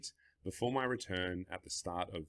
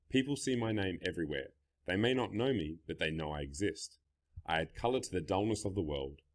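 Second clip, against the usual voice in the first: measured reading with pauses between statements; monologue read-aloud. Acted. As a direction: read it aloud line by line, leaning on each opening. Reads example monologue aloud.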